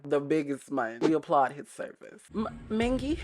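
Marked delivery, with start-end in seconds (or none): 2.3-3.2 high, hesitant moaned name; breathy moan. Pretend. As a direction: act out the moan, half-embarrassed. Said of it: "I gotta act out the sound".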